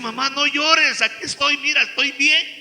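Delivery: daughter's spirit pleading with her weeping mother, lightly voiced. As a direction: comfort someone who cannot hear you.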